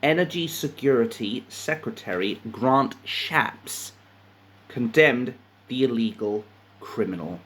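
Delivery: measured news reading with pauses; article read-aloud. A narrator's reading. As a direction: read out the report phrase by phrase.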